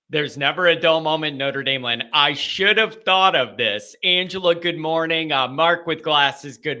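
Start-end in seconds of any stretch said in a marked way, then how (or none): 0.1-2.0 brisk, all in one breath; quick run-through. Real, not acted. Host repeating the catchphrase to listeners, quick run-through. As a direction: say it straight through without pauses.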